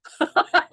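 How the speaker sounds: heldere lach; 1 laugh. Real, not acted. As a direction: lach het even uit. Laughs at own joke.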